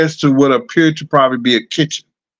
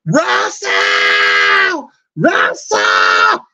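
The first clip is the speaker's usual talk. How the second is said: calling out a name, pitched up; mock yell for Russell across the apartment; retold hollering; 4 semitones higher, much slower than usual. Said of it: "started hollering and screaming".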